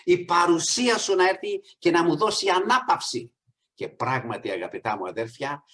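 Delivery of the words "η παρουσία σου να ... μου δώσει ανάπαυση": retold cry to God. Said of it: "κράζω στον Θεό και λέω".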